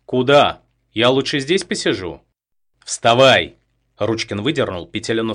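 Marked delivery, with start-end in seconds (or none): 0.0-2.2 loud, defiant refusal; raised-voice refusal. A narrator's reading. Captive resists, loud reluctant reply. 2.8-3.6 loud sharp command to stand; barked order. A narrator's reading. Gunman orders her up.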